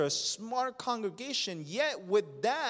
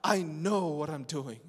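proud refusal; 3 semitones lower, slower than usual. Acted. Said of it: "here you are again saying".

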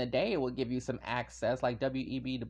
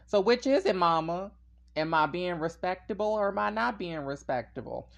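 exasperated sass; 5 semitones higher, 5 dB louder than usual. Retold or imitated. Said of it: "I'm like".

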